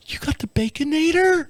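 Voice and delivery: high, thrilled whisper; excited whisper. Retold or imitated. Husband asks wife about the burger, awed whisper. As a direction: breathe it out in awe. Thrilled at fast food gift.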